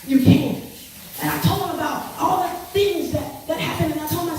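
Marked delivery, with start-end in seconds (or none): 0.1-0.6 loud, breathy punch on you can; emphatic punch. Real, not acted. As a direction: land it like a promise. Preaching climax to audience.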